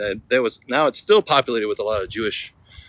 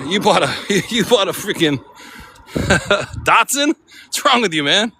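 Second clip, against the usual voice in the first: mocking bro; 8 semitones higher than usual. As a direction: rib a friend over his cheap car. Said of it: "you'd be like".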